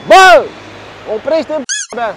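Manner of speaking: explosive high yell at a driver; sudden road-rage shriek; real scream. Real, not acted. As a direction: scream at them to stop, at full voice. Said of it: "Mamă, ce-am țipat!".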